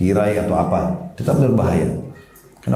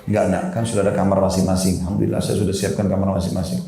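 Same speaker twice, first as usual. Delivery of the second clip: mild, low-key parental persuasion; retold soothing refusal to a child; gentle coaxing; 3 semitones lower than usual. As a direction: coax a child kindly, voice slightly lowered. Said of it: "Saya rayu baik-baik".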